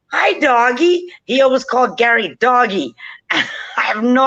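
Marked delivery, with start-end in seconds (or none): 0.1-1.1 slow, higher sing-song parrot greeting. Retold or imitated. Parrot greeting its drunk owners coming home, slow, higher parrot voice. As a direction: mimic the parrot and stretch the words out. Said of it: "And the bird's like".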